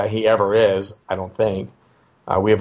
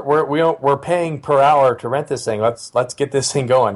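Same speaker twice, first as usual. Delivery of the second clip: playful prodding; 5 semitones higher than usual. Retold or imitated. Acted prodding about rented cleaner.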